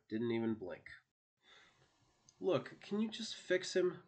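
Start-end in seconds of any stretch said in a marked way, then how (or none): 2.4-4.0 pleading, pitched higher; begging her sister, voice lifted up high; narrated plea, higher and urgent. A narrator's reading. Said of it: "Victoria pleaded".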